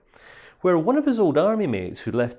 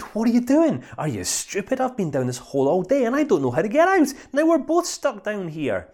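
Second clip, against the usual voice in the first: higher, louder, incredulous scolding; hammed-up disbelief; exasperated outburst; 10 semitones higher, 3 dB louder than usual. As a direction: tell him off for jumping in. Man scolds friend for jumping in.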